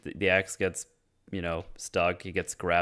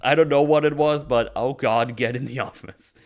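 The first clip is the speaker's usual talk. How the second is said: loud, high, rushed order to get inside; urgent yell; 5 semitones higher, 7 dB louder than usual. Retold or imitated. Dan ordering the dude into the office, urgent yell. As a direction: bark it out like there's no time. Dan yelling at survivors to hide.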